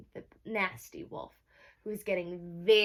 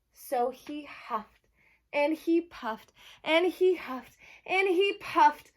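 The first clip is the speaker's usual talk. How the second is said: slow, climbing higher and louder each phrase; building excitement; 6 semitones higher, 5 dB louder, slower than usual. A narrator's reading. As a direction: build the tension line by line. Narration building the blowing.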